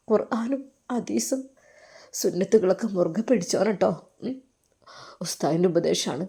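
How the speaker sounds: put-on calm the boy and advise him kindly; tender advice. Teacher blessing his student after reunion, softly tender.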